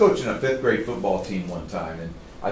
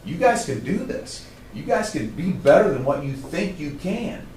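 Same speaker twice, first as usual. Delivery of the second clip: higher-pitched, impassioned urging; passionate; 5 semitones higher than usual. Retold or imitated. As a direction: plead with the team, pitch lifted. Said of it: "I got passionate about it".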